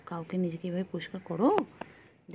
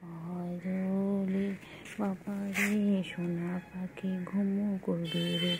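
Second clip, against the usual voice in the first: very slow drawn-out coaxing; lullaby coaxing; much slower than usual. Real, not acted. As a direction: stretch each word to lull the pet to sleep. Lulling pet to sleep. (ঘুম পাড়ানি সুরে টেনে টেনে)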